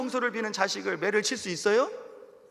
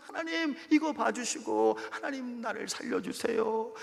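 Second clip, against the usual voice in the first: tearful prayer. Retold or imitated. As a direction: plead with God through tears. (눈물로 간절히 기도하듯)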